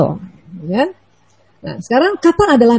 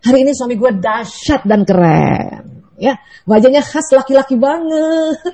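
slow, pleased "dahsyat dan keren"; positive reframe; slower than usual. Shown as a demonstration. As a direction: say it slowly with contentment. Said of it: "cara kayak gini".

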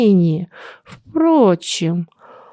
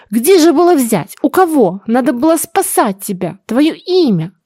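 higher, pleading justification; agitated defence; 5 semitones higher than usual. Acted. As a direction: defend yourself to your son. Mother defends herself. (взволнованное оправдание)

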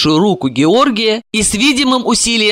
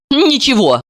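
higher, quick brush-off; light dismissal in a raised voice; dismissive; 7 semitones higher than usual. A narrator's reading. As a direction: wave the question away. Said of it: "отмахнулась Марина".

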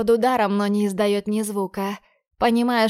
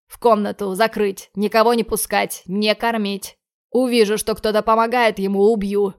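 harsh orders; 4 dB louder than usual. Acted. Boss giving orders.

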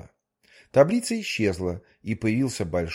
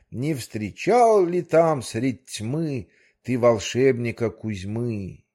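verse plea. Acted. The manager recites verse to the whale.

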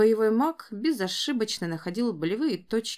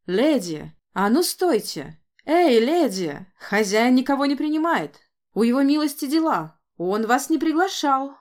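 louder, higher yelling after her; guard shouting; 4 semitones higher, 6 dB louder than usual. Acted. Gatekeeper yelling at the lady storming through the gates. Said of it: "игнорируя крики".

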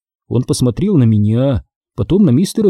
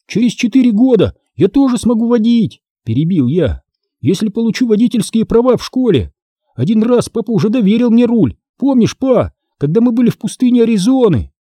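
put-on excited kid boasting, pitched up; eager boy, much higher; 9 semitones higher than usual. A narrator's reading. Son boasting to seller about driving, eager boy. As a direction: bubble over with eagerness.

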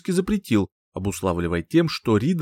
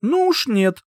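decisive; 12 semitones higher, slower than usual. Acted. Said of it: "решительно поднялась".

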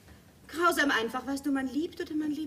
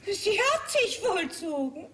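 laughing; 6 semitones higher, 3 dB louder, slower than usual. Acted. Answers husband with rueful laugh.

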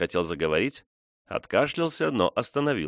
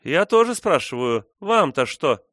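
mocking echo; 8 semitones higher, 6 dB louder than usual. A narrator's reading. Frona mocks his defiant question.

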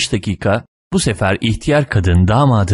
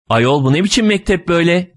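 put-on high-pitched, bewildered old lady; clueless old woman; 9 semitones higher than usual. A narrator's reading. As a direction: question it in naive astonishment. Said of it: "Hala işin farkında olmayan yaşlı kadın".

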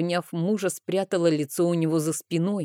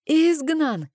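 much higher, loud shrieked repeat of изгнан; screaming; 10 semitones higher, 4 dB louder than usual. A narrator's reading. Uncle screams the word once more at the priestess. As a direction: push the repeat to a frantic peak. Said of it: "кричал дядя".

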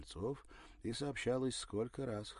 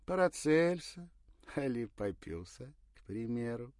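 put-on higher, sly storybook old woman; fairy-tale granny; 6 semitones higher, 9 dB louder than usual. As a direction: tease like a folk-tale witch. Same voice continues.

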